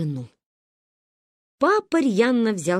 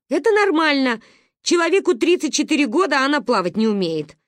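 boiling over; 7 semitones higher, 4 dB louder than usual. Acted. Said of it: "вскипел папа".

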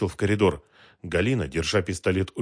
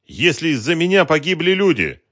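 high, loud anguished cry; despairing; 10 semitones higher, 9 dB louder than usual. A narrator's reading. Woman blaming herself for deaths, loud despairing cry. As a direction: lament it with rising distress. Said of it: "в отчаянии произнесла она".

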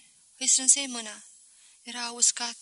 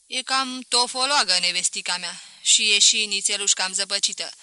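louder, a touch of complaint; lightly voiced grumbling merchant; 6 dB louder than usual. Merchant tells a guest his wife is dim, mildly grumbling. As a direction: complain loudly about your wife.

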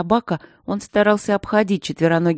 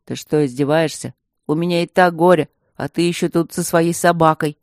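gloomy; 4 dB louder than usual. Acted. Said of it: "угрюмо произнёс".

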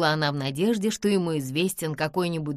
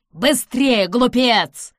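high, loud urgent shout; man shouting at the villain to hurry; urgent exclamation; 5 semitones higher, 8 dB louder, much slower than usual. A narrator's reading. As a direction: yell at the fool to hurry. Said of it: "воскликнул Хендрик".

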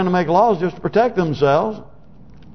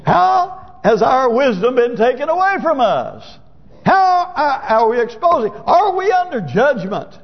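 fervent preaching; 7 semitones higher than usual. Real, not acted. Preacher rising to a climax.

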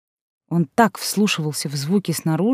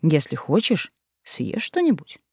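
unexpectedly gentle, soft offer; tender; 5 dB quieter, slower than usual. A narrator's reading. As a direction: say it kindly and softly. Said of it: "неожиданно ласково".

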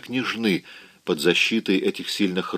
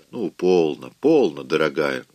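tender; 5 semitones lower than usual. Acted. Rhett calms the weeping Scarlett, tender and soothing. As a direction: hush her gently like a frightened child. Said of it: "ласково говорил Рет".

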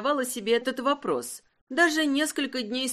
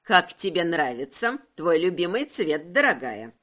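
put-on older aunt voice; 5 semitones lower than usual. Aunt Cleo voiced, lower.

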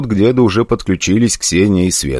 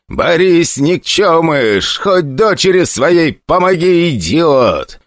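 yelling; 9 semitones higher, slower than usual. Acted. Ozerov yells at Boris to help his daughter, angry shout. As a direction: bellow it across the battle noise. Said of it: "заорал во всю мощь лёгких".

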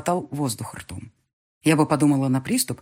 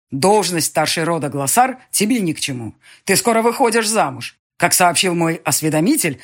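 lightly voiced stern father; 5 dB louder than usual. Angry father lectures daughter.

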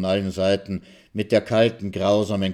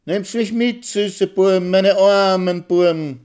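squeaky and much higher, the last words slow; high squeak; 12 semitones higher, 8 dB louder, slower than usual. A narrator's reading. Mitzi calling to the departing soldiers, squeaking high and slow. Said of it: "quietscht mit ihrer feinen, melodiösen Stimme".

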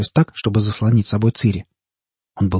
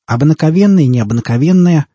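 loud, raised, jeering delivery; guffawing; 6 semitones higher, 5 dB louder than usual. A narrator's reading. Fat man joking to his mates, guffawing. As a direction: crude amusement, pushed out loudly. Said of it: "хохотнул толстяк с чубом".

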